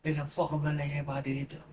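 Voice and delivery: playful Irish put-on; put-on Irish accent. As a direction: answer in a cheeky fake Irish accent. Keeps up the Irish accent joke.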